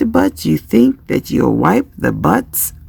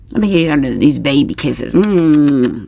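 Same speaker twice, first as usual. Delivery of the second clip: lower, quick doting patter into a hummed kiss; baby-kisses voice; 5 semitones lower than usual. Shown as a demonstration. Parent giving the child baby kisses, lightly doting. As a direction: smother a child in playful kisses. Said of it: "That's how I do the baby kisses".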